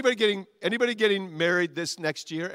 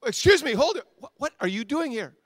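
sharp, higher, louder interruption; startled pastor; 5 semitones higher, 4 dB louder than usual. Acted. The pastor halting the best man at the altar, loud and startled. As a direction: hold it, stop the intruder. Pastor voiced in wedding skit.

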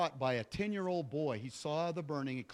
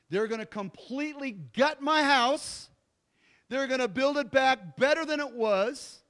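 rising louder and higher with each item; excited friend; 4 semitones higher, 4 dB louder than usual. Retold or imitated. Friend excitedly telling the preacher about the new house. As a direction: pile on the good news with growing joy. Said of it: "He goes".

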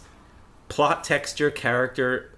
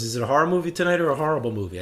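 higher, quick question in imitation; lightly voiced daughter; 4 semitones higher, 4 dB louder, much faster than usual. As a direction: lightly mimic a daughter checking. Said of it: "She goes".

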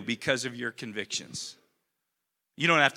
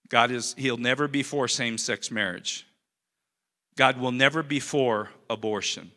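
no emotion; 4 semitones lower than usual. Shown as a demonstration. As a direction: read out with no emotion, lower and steady. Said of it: "I'm gonna read it with no emotion".

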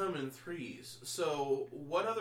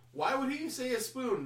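laughing; 10 semitones higher, 4 dB louder than usual. Retold or imitated. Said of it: "I'm thinking to myself".

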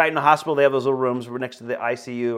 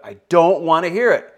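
louder, higher, firm refusal; raised voice; 4 semitones higher, 8 dB louder than usual. Retold or imitated. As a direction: shut him down with a raised voice. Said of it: "his voice went up".

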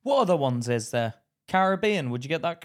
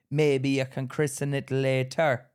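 Jamaican plumber; slower than usual. Retold or imitated. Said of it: "I think he was Jamaican".

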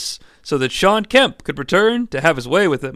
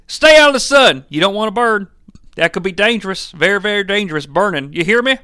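higher-pitched, bossy dad voice; dad figure, warning; 5 semitones higher, 4 dB louder, faster than usual. Acted. Dad warning his son about burning, stern warning.

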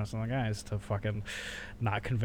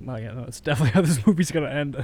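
cocky dad; 3 semitones higher, 6 dB louder, faster than usual. Retold or imitated. Dad quoted, sure.

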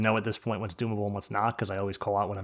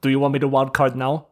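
louder question in a mock Austrian accent; Hundi, Austrian accent; 2 semitones higher, 6 dB louder than usual. Player mimics Hundi asking about wild card, mock Austrian accent. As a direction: lightly imitate someone with an Austrian accent. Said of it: "I don't know why Hundi's Austrian now".

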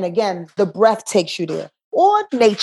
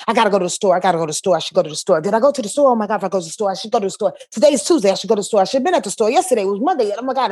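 anxious nagging voice; much faster than usual. Retold or imitated. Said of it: "It's a nagging kind of sensation".

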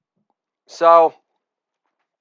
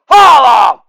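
shouted catchphrase; 3 semitones higher, 5 dB louder than usual. Acted. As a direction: belt out holla, pitch falling.

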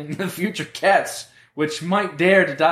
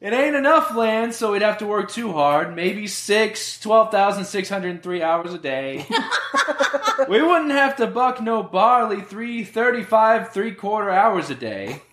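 gangster voice; 5 semitones higher than usual. Acted. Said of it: "He just turned into a gangster".

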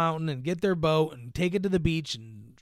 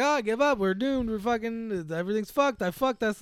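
panicking; 7 semitones higher than usual. Retold or imitated. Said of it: "starting to freak the fuck out".

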